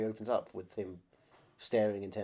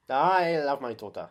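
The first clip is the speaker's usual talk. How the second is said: hammed-up action hero; 7 dB louder, slower than usual.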